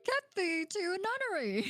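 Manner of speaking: theatrical recitation. Acted. Quotes Hamlet theatrically.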